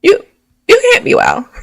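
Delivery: exasperated. Real, not acted. Exasperated repeat.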